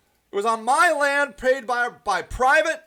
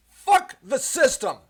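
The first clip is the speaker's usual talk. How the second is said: loud, slow angry slogan; 3 semitones higher, 5 dB louder, slower than usual. Real, not acted. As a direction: spit it out like a rallying cry. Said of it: "I'm naturally angry".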